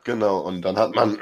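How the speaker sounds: speaking with a cold; a bit congested from a cold; stuffy nose. Real, not acted. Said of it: "ich bin ein bisschen erkältet".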